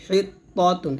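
হিত ত তুন with a tight throaty H; pressed H. Shown as a demonstration. Teacher modelling the word for pupils, H pressed. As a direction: squeeze the H of হিত, heavy ত. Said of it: "চাপ দিয়ে বলবেন".

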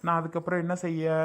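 a spurned husband mourning the wife he lost; bitter lament. Acted. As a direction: sigh it out as if love were lost for good. Rejected husband laments losing wife.

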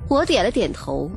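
ordinary delivery, nothing marked

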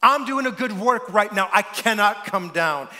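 emphatic repeat. Acted. Pastor repeating his wife's words to the church, emphatic. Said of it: "repeated for emphasis".

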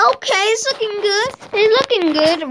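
high-pitched, sing-song reassurance; odd put-on voice. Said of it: "Why am I talking like this?".

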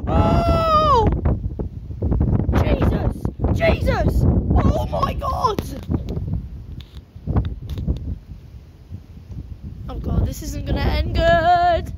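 high startled cries of alarm; yelping as a gust hits; startled shouts. Real, not acted. Caught in sudden storm gust.

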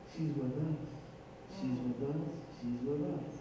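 low, soft, repeated reassurance; calm the sheriff down gently; soothing advance man. Retold or imitated. Advance man calming the sheriff down, low and soft. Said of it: "he tells the guy".

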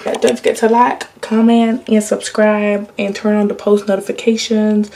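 lightly mock the classic YouTuber outro voice; annoying YouTuber accent. Reminding viewers to subscribe, in a light put-on YouTuber accent. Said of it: "I always do that annoying accent".

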